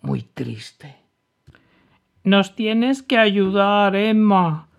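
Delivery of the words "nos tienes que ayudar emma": high, loud and slow plea for help; duckling shouting. A narrator's reading. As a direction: call out to Emma, slow and desperate. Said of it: "gritó el patito Lucas".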